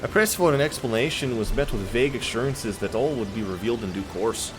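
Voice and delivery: put-on Celtic accent slipping into Wisconsin; botched accent that sounds Wisconsin or Minnesotan; accidental Wisconsin accent. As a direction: aim for Scottish, land in Midwestern American. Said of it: "now I sound Wisconsin".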